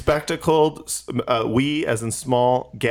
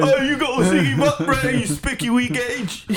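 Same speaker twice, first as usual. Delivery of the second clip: very high, squeezed fake Scottish accent; hammed-up Scottish put-on; mock Scottish accent; 9 semitones higher than usual. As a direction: hurl silly insults in a high mock-Scottish voice. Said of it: "The accent works for everything".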